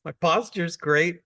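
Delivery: high-pitched mock defensiveness; wronged little child. Student defending himself to Zen master, mock aggrieved. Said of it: "You're the little child".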